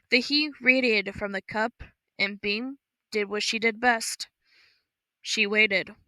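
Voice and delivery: usual speaking voice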